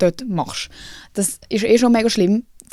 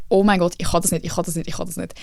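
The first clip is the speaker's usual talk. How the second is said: trembling panic; 3 semitones lower than usual. Retold or imitated. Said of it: "bin so low-key am, am Zittern gsi".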